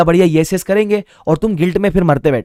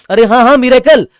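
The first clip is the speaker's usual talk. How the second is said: mock excited shout, much higher and louder; shouting miracle; 8 semitones higher, 9 dB louder than usual. Students boasting after one early lecture, mock shout. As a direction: cry out miracle like a show-off. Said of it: "miracle चिल्ला के बोलेंगे".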